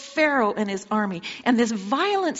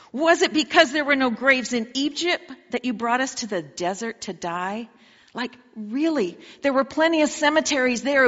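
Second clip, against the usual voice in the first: sarcastic questions. Acted. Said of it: "Kind of sarcastic questions".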